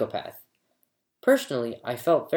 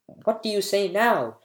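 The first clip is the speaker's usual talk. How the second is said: much higher gloating yell; 7 semitones higher than usual. A narrator's reading. Older brother gloats after winning the wager, gloating yell. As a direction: crow it over him triumphantly. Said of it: "yelled the older brother".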